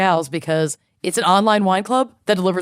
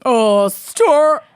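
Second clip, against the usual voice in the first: drawn-out exclaim; 6 semitones higher, 6 dB louder, much slower than usual. Pretend. Loud slow exclamation.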